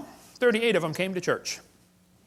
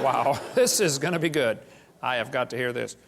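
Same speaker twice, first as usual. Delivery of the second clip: chuckling; 4 semitones lower than usual. Retold or imitated. Amused thought, laughing.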